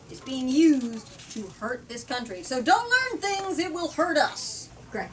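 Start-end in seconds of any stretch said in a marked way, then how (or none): 2.4-4.7 higher, slow mock lecture; mocking paraphrase. Summing up the politician's speech, slow mocking paraphrase. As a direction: sneer at the anti-knowledge message.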